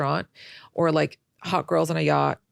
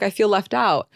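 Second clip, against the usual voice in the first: louder, higher, whining complaint; 5 semitones higher, 6 dB louder than usual. Retold or imitated. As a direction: complain loudly, feeling left out. Retold complaint to family.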